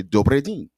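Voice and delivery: "Dobry dzień" said as a Polish greeting, stress on dzień, falling. Shown as a demonstration. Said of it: "and they would say".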